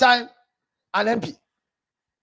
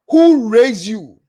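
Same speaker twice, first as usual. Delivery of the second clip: 1 slow scolding read; 6 dB louder, much slower than usual. Retold or imitated. Reading out a scolding message.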